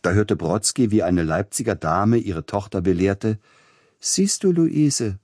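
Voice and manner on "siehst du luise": higher, louder prim lady pointing something out to her daughter; a lady instructing her little girl; Leipzig lady. A narrator's reading. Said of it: "sprach die Dame und wies auf uns".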